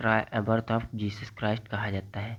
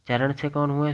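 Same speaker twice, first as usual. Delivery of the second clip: quiz question; 3 semitones higher, 3 dB louder than usual. Shown as a demonstration.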